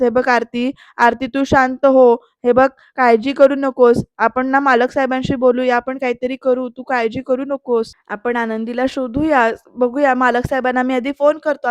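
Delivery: mildly soothing, measured acted comfort; calm her down and promise help; reassuring. Shirke consoles Aarti, gently reassuring. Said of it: "आरतीला समजावतायत".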